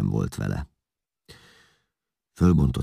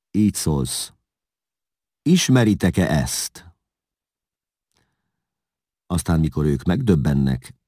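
lightly voiced ruler, louder declamation; commanding Attila; 3 semitones higher, 5 dB louder than usual. Attila instructs envoy to shame the emperor, lightly acted command. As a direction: dictate a stern message, emphatically.

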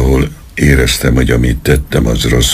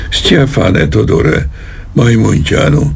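high, slow desperate yell toward the door; bellowing for his men; yelled call; 9 semitones higher than usual. A narrator's reading. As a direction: call out for help in a panic. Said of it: "Üvöltött elkékülve az ajtó felé".

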